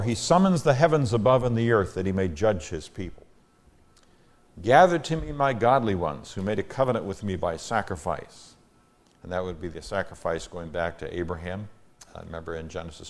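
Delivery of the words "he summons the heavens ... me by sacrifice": measured, emphatic psalm reading; scripture reading. Acted. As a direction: proclaim the psalm to the congregation. Reads the psalm aloud.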